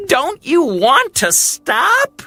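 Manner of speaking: high, cocky little bird voice; boastful Hummingbird. Acted. Hummingbird boasting to Heron, high and cocky. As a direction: brag about the lead.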